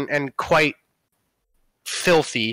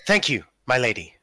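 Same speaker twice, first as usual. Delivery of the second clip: rescued noble; 3 semitones lower, faster than usual. Acted.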